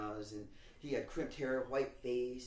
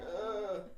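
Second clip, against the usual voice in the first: drawn-out, higher-pitched "ugh"; embarrassed groan; 8 semitones higher than usual. Retold or imitated. Student laughed at by the whole class, embarrassed groan. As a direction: groan as if everyone is pointing at you.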